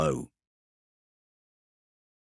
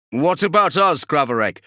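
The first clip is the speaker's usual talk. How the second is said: higher and louder, calling out; a soldier calling across to his commander; eager soldier's question; 7 semitones higher, 5 dB louder than usual. Acted. Zesius calls out to Kravarek, asking, raised voice.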